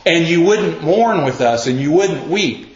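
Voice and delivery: calling out. Acted. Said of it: "the other side calls out and says".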